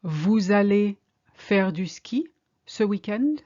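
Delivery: slow and deliberate, a rising question; slow, careful. Shown as a demonstration. Teacher modelling the question for learners, slow and careful. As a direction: spell it out word by word. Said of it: "Are you going skiing this weekend?".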